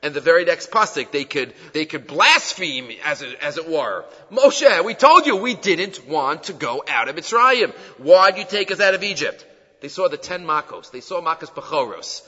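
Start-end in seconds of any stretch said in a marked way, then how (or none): 4.3-9.4 mock protest, louder on the opening name; voiced complaint. Israelites complaining to Moshe after leaving Egypt, mildly acted protest. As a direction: imitate an aggrieved crowd complaining.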